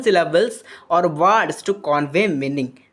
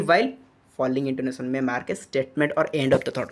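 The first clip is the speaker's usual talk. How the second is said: "ହ୍ୱାଇଲ୍ ଫଲିଂ ଇଣ୍ଟୋନେସନ୍" read lower and softer, as a closing statement; falling intonation; 4 semitones lower, 4 dB quieter than usual. Shown as a demonstration. Teacher showing how a thought ends, lowered voice settling on "ଅଫ୍ ଦ ଥଟ୍". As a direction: let the voice sink through to "ଅଫ୍ ଦ ଥଟ୍". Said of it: "obviously ଫଲିଂ ଆସିବ".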